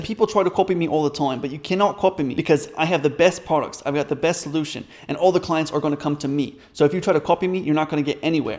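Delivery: put-on a light, lightly done New Zealand accent; imitating a guru's New Zealand accent, half-hearted. Coach mocking a business guru's boast, light New Zealand accent. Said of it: "I'm gonna say it in his accent".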